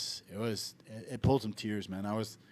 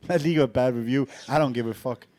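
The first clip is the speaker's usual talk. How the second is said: mock indifference; 7 dB louder than usual. Mocking indifferent Tallinn staff.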